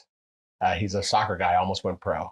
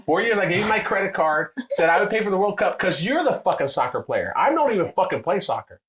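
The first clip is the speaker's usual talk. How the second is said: higher and louder, indignant; retold angry rant; 9 semitones higher, 4 dB louder than usual. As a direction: vent at him like you just got burned.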